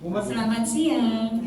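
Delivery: slow, friendly greeting said through a smile; drawn-out smiling hello. Shown as a demonstration. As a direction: greet them slowly with a real smile. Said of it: "Ibu senyum duluan".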